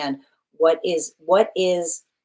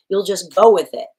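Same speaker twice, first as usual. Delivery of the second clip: louder laughing emphasis; 2 semitones higher, 8 dB louder than usual. Real, not acted. Lively joking about accepting the terms.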